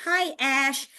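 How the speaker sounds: lightly voiced parent greeting; parents' greeting. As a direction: act out a parent's friendly reply. Parents' reply acted out.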